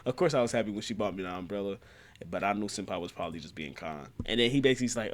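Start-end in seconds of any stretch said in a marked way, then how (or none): none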